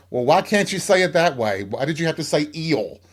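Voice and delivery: mock protest, high and incredulous; exasperated. Manager questioning the odd Southern word, exasperated.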